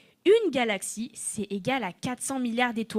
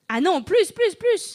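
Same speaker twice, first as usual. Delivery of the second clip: excited; 8 semitones higher, 8 dB louder than usual. Acted. Guessing game with children.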